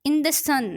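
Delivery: in the sun, leaning on the final sun; stress on SUN. Shown as a demonstration. Teacher repeating the example for students, stress on sun. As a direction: keep in the unstressed and emphasise sun. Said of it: "sun जो है उस पे हमने stress दिया".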